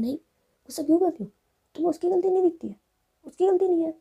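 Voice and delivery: high, loud indignant retort; heated, high-pitched objection; angry protest. Acted. Jiya angrily argues back in story.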